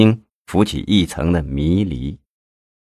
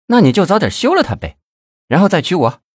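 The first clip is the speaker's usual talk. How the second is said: high-pitched, pert mistress voice; cajoling girlish voice; coquettish urging; 9 semitones higher, faster than usual. A narrator's reading. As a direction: prod a lover lightly, pitched way up. Mistress urging lover to divorce.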